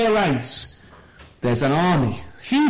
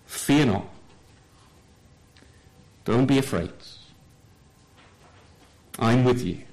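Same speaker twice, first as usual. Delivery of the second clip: gentle and tender; 7 semitones lower, 3 dB quieter than usual. Shown as a demonstration. Preacher comforting a troubled listener, tender and soft. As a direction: gently reassure a frightened soul. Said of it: "He deals with him very tenderly".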